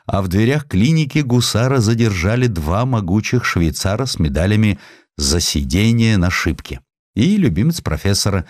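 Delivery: ordinary delivery, nothing marked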